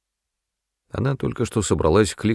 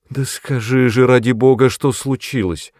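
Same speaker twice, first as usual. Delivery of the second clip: high, louder pleading wail; plaintive moan; 6 semitones higher, 5 dB louder than usual. A narrator's reading. Mother pleads with Agnes in a high, louder plaintive wail. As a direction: beg her to tell, moaning. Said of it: "жалобно простонала миссис Броуди".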